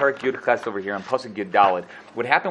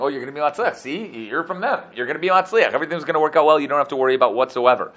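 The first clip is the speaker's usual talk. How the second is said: mock false prophet; 3 semitones higher, faster than usual. Prophet mimicking false prophets to king, sarcastic. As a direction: parrot the false prophets' empty promise. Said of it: "mimicking the false prophet saying".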